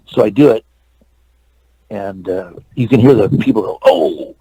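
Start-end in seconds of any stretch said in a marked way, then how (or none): 3.8-4.3 drawn-out "Oh" from onlookers; imitated crowd reaction. People watching the stunt demonstration react, imitated long "Oh". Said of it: "how someone's watching something?".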